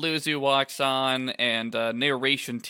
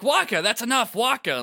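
restraining shout; 9 semitones higher, 4 dB louder than usual. Acted. Tidus pulling Wakka back.

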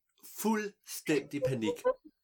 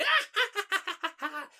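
high, loud villain cackle; mad cackle; 4 dB louder than usual. A narrator's reading. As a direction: cackle in triumph. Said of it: "hun stod og grinte". (vanvittig triumferende latter)

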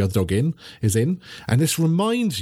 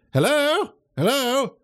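high calling voice, quicker at the end; professor calling; 11 semitones higher than usual. Acted. The cat professor calling into the warehouse, high and quick. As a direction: call out into the room, impatient. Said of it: "the professor is like".

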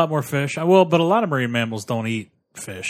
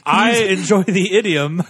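stiff example sentence; 6 semitones higher, 5 dB louder, slower than usual. Pretend. Mock example sentence, put-on voice.

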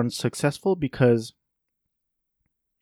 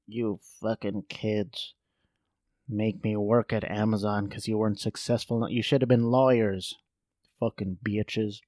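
resentful grandma; 2 semitones lower, 5 dB quieter than usual. Pretend. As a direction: grumble under your breath at your kids. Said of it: "like, resenting her kids".

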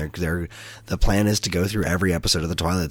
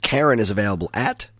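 lightly sultry ad read; a hint of a sultry announcer; 2 semitones higher than usual. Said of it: "Use that sultry voice for one last time".

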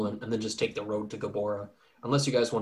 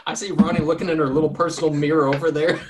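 laughing; 3 semitones higher, 5 dB louder, faster than usual. Real, not acted. Laughing while teasing Ronnie.

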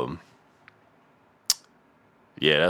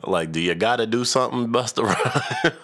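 laughing; 5 semitones higher than usual. Real, not acted. Laughing at the rapper.

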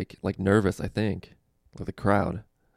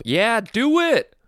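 much higher, louder, slow drawn-out shout; mock heckle yell; 7 dB louder, much slower than usual. Heckler answering the comic's question, slow gleeful yell. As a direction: stretch the heckle out loud and gleeful.

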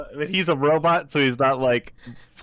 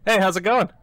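upbeat robot greeting, a touch higher; 7 semitones higher, 6 dB louder than usual. Acted. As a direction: chipper machine saying hello. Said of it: "Let me switch to my robot voice".

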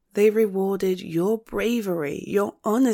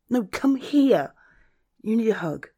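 gently insistent; 4 semitones higher than usual. Acted. Friend coaxing a reluctant friend into a hug, insistent. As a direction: stretch it out and insist.

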